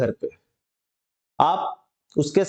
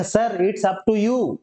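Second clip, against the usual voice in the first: slow polite reply; 3 semitones higher, much slower than usual. Shown as a demonstration. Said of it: "तो बोलेंगे".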